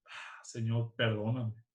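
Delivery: soft, sighed plea for forgiveness; sigh, then quietly ask forgiveness, as if recalling it; regretful sighing plea. Retold or imitated. Speaker retells asking God's pardon, regretful sigh. Acting out own regretful prayer.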